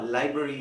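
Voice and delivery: लाइब्रेरी with short "bruh" in the middle; correct pronunciation. Shown as a demonstration. Teacher correcting students, लाइब्रेरी with a reduced middle vowel. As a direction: say लाइब्रेरी as LIE-bruh-ree. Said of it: "correct pronunciation क्या होगा".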